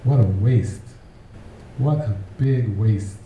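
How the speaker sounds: slow, weighted mock disapproval; drawn-out, dismissive verdict; disapproving onlookers. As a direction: imitate people writing someone off. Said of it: "people around me were going".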